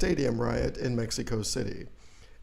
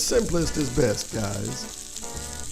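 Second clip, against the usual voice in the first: folksy ad pitchman; 4 semitones higher than usual. Acted. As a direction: sell sausages like a cheery TV spokesman. Sausage ad pitchman.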